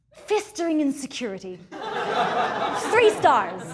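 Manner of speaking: crisp, official report read; formal reviewer voice. Acted. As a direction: deliver it like a stiff performance review. Reads mock formal review.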